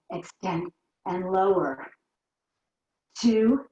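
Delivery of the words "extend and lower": slow, drawn-out count. Shown as a demonstration. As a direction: stretch each word out slowly. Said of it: "Two more slow".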